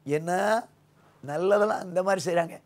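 normal talking voice

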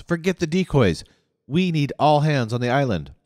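high, loud angry snarl. A narrator's reading. Leader snarls at the guardhouse recruiters. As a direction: snap the order at them. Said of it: "he snarled at the recruiters".

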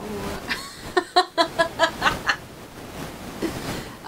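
long breathy giggle; real delighted laughter; giddy laugh. Real, not acted. Laughing at the shine.

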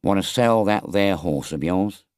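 offhand, casual gypsy question; careless. Acted. Gypsy to Toad, a careless offhand offer. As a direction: toss it out like it hardly matters. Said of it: "remarked in a careless way".

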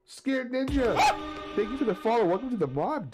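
high-pitched, hyped shout-out; excited welcome. Real, not acted. Streamer thanks Scared Ninja for the follow, excited welcome.

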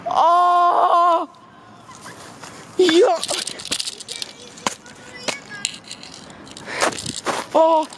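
high shocked yelps; yelping in the cold. Real, not acted. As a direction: cry out at the sudden cold. Steps into cold mud.

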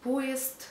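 поезд as "PO-yest", ending in t; devoiced ending. Shown as a demonstration. Teacher showing devoicing, поезд as "poyest". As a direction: finish поезд on st. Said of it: "we pronounce T instead of D".

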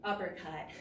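calling strikes while punching; punching through the combo; hitting a punching bag. Real, not acted. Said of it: "Let's switch three times".

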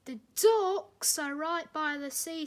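light up at the news; an engine thrilled to be back by the sea; excited. A narrator's reading. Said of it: "said Salty excitedly".

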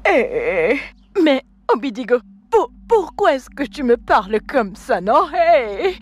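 hurt tearful plea. Acted. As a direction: plead with him through tears. Wife hurt by his insults.

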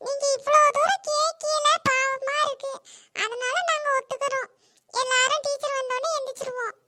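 a lightly voiced smug classmate; condescending boy. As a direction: grant the favour like doing them a kindness.

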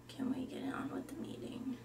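deadpan whispered goth; a goth girl whispering dryly. Acted. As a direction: breathe it out, flat and gloomy. Goth Summer pushes on.

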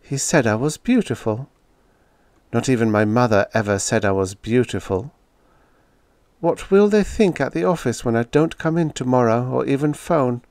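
Julia's voice. Acted. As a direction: she wonders aloud, hurt and uneasy. Julia speaks, troubled.

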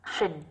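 "shin" as a soft sh plus short n; SH sound in "shin". Shown as a demonstration. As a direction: model the ending "shin" on its own, falling. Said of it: "hầu hết được phát âm là shin".

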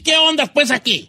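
hammed-up complaint; mock indignation. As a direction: act affronted at ungrateful vegetables. Acts vegan telling off vegetables.

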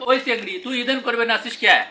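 put-on scolding a girl in Rangpur village dialect. Shown as a demonstration. Answering a friend's dialect quiz in Rangpur speech. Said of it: "আপনার গ্রাম্য ভাষায় কেমন হবে".

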